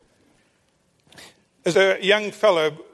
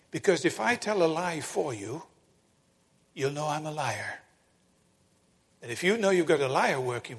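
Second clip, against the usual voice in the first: small quiet voice; 2 semitones lower, 9 dB quieter than usual. Retold or imitated. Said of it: "surprised to hear the little voice".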